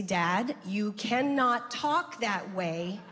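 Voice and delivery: mildly exasperated talking-to, pitch lifted; firm scolding. Retold or imitated. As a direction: lay down the law to a falling-apart parent. Acted scolding of her distraught dad.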